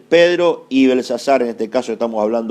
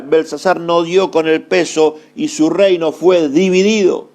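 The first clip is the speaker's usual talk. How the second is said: emphatic, raised-pitch pulpit delivery; preaching; 3 semitones higher than usual. Real, not acted. Preacher drives home Belsasar's failure to the congregation, emphatic preaching. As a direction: preach it in ringing repeated phrases.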